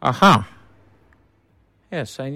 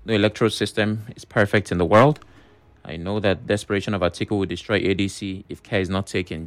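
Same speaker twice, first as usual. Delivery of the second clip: radio message read-out; 8 dB louder than usual. Acted. Host reads out listener's text on air, emphatic read-out. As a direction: project the listener's message firmly.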